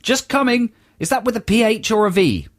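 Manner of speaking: lightly put-on posh English accent, playful; mock posh English accent. Stranger shouting back in a lightly mock posh English accent. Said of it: "in a mock posh English accent".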